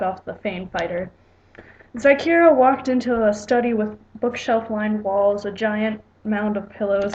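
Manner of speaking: lightly measured read-aloud narration; story narration. A narrator's reading. Writer reading own story to viewers, plain storytelling narration.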